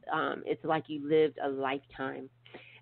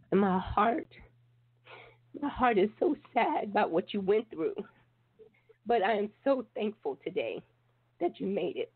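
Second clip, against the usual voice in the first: tearful; 3 semitones higher than usual. Real, not acted. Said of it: "I'm sitting here crying".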